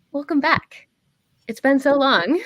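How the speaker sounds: a hint of a wise old woman; old lady voice. GM voices Madame Cormyth.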